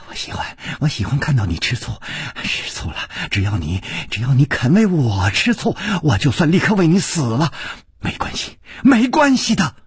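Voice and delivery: breathy devotion building to fervour; gentle, impassioned repeated murmurs; tender. Acted. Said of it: "柔声说".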